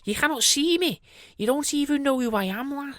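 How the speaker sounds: high sing-song friendly voice; chirpy high and sweet; nicer voice. Acted. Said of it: "in a nicer voice".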